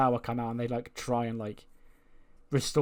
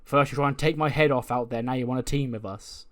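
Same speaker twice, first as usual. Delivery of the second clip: louder, protesting, hold on a minute; indignant outburst; 5 dB louder than usual. Retold or imitated. Fraser protests to the man who attacked him, louder and indignant. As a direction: push back hard, offended. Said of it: "Nathan Fraser goes".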